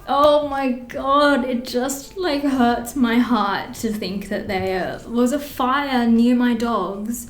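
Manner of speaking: slow, pained oh my God; heartfelt distress. Real, not acted. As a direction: let the worry ache through, slowly. Upset about fire near dogs.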